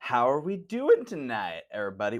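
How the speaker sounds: voice cracking and breaking. Speaker opening Slasher Town, greeting everybody, voice cracking. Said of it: "do you hear my voice crack?".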